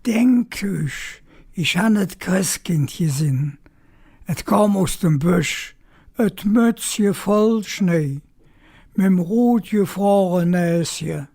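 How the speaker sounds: put-on measured storytelling recitation of a children's rhyme; poem recital in Kölsch. Shown as a demonstration. Reciting the best-known Christmas rhyme in Kölsch, gentle recital. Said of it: "he et Rühmsche ob Kölsch".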